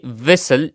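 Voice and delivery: व्हिसल said "visel" with no t; व्हिसल, the t left unsounded; व्हिसल pronounced without the t; silent t. Shown as a demonstration. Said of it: "तो इसकी pronunciation कुछ इस तरह होगी".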